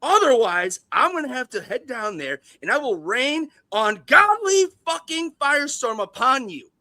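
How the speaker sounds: hammed-up tirade of a crazed studio exec; Les Grossman impression. Impersonating Les Grossman threatening a rival at length. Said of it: "my best Les Grossman impersonation".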